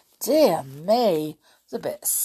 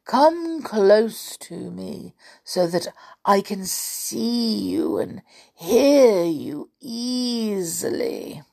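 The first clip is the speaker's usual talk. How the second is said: drawn-out coaxing; slow storybook wolf in disguise; wolf as granny; 4 semitones higher, slower than usual. Acted. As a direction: lure her closer, stretching the last words.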